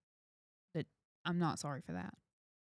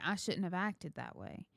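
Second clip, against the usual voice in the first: sincere apology; 6 dB quieter than usual. Retold or imitated. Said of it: "go to my kids and be like".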